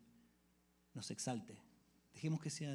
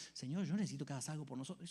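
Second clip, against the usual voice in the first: mock demanding prayer; 3 dB quieter, faster than usual. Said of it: "Eso no dijo Pablo".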